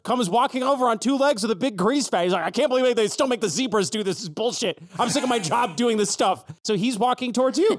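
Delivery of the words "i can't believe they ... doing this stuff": lightly voiced griping fair worker; a hint of a fed-up carnival employee; grumpy zebra worker. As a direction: complain like an underpaid zebra.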